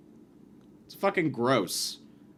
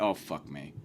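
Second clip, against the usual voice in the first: much lower and softer groaned aside; dismayed girlfriend; 10 semitones lower, 9 dB quieter than usual. Retold or imitated. Girlfriend realizing they met the wrong guy, muttered groan. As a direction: mutter it in despair. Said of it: "his girl went".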